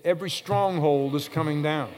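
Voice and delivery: firm, emphatic declaration; like you mean it. Shown as a demonstration. Preacher prompting the congregation to declare it, like they mean it. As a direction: say it with conviction. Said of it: "Now say it like you mean it".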